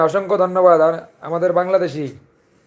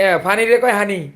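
Chandpur dialect; 2 semitones higher than usual. Shown as a demonstration. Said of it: "আঙ্গ সাতপুরিয়া ভাষা".

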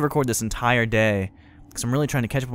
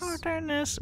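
mimicking game character; 11 dB quieter than usual. Echoing the game character's line.

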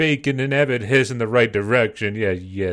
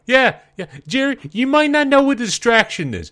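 high, loud, incredulous outburst; yelping in amazement at what the character just did; shocked disbelief; 9 semitones higher, 5 dB louder than usual. Real, not acted. Reacting to Jerry nearly pushing the car off a cliff, high shocked outburst.

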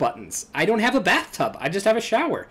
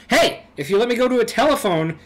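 raised, high-pitched outburst; indignant protest; 5 semitones higher, 4 dB louder than usual. Acted. Girl arguing over the phone with no service, indignant outburst. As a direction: call out in loud protest.

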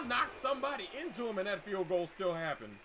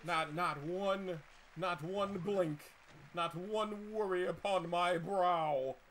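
mock grand boast; slower than usual. Real, not acted.

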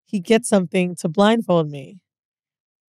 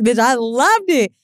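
ordinary talk

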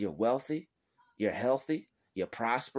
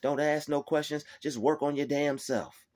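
God's stern word; 4 semitones higher than usual. Retold or imitated. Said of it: "That's what God is telling them".

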